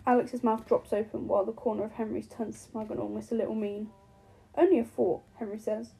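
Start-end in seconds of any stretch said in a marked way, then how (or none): 4.5-5.2 polite. A narrator's reading. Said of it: "tone polite".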